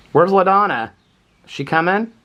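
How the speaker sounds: high, loud call for the bird; high, eager call to a bird. Real, not acted. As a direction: sing out her name up high. Calling out for the bird again.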